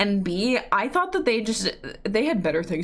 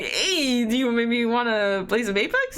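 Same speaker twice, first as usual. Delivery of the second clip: mock timid squeak; 3 semitones higher than usual. Mimicking her own shy invite.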